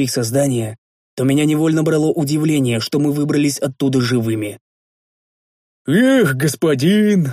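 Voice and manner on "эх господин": slow, drawn-out lament; anguished sigh. Acted. Big man laments his lost axe to master, with anguish. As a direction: let the cry tear out of the chest. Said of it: "с надрывом произнёс здоровяк".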